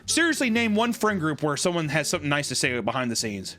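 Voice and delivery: normal talking voice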